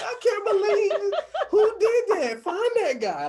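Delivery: high, loud, laughing near-tears; overwhelmed disbelief. Retold or imitated. Host hearing a fan call, squealing high with laughing disbelief. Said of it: "about to cry".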